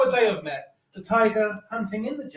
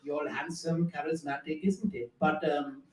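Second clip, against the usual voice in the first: Indian nan; 3 semitones lower, 3 dB quieter than usual. Retold or imitated. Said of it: "she said to me".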